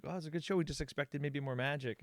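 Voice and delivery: high, softened excuse; backpedaling client. Retold or imitated. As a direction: complain apologetically, padded with praise. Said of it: "backpedaling and like".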